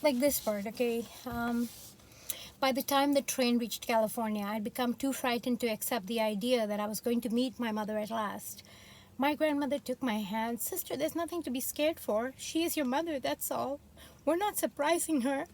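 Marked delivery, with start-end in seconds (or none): 2.6-10.6 measured memoir reading aloud; story narration. A narrator's reading. Reads memoir aloud in accent. 10.6-15.5 put-on higher-pitched Southern grandmother reassuring a child; lightly imitated Southern African-American accent, pitched up. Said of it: "I'm saying it in this sort of accent".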